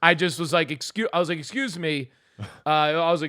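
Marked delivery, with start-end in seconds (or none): 0.7-2.1 businesslike polite "Excuse me", like a customer; clientele tone. Retold or imitated. Retelling how he called the waitress: businesslike polite tone. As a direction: say "Excuse me" like flagging a waiter. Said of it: "it was still in clientele tone".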